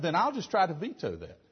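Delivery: "try" given extra weight and length; stress on try. Shown as a demonstration. Preacher tells the congregation to hear the weight on "try". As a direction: lean hard on "try". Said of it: "Emphasis on the word try".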